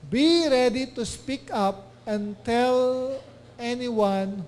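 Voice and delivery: very slow, deliberate verse reading; slow scripture reading. Acted. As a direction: lean on each word of the verse. Reads scripture slowly. (napakabagal na pagbasa ng talata)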